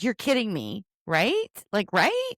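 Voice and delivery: climbing, disbelieving questions; shocked disbelief. Retold or imitated. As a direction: ask it in mock shock, lifting each ending. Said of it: "I was completely shocked".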